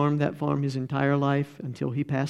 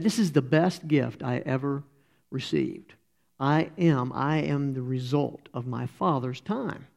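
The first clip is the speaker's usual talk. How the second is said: fighting to keep it together through the quote; getting emotional; 4 dB quieter than usual. Real, not acted. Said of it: "I'm gonna get emotional here".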